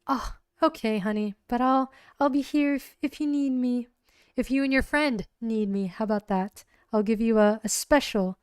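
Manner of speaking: flirty barmaid. Acted. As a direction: purr it like a barmaid sweet-talking a customer. Barmaid flirting, offering a special.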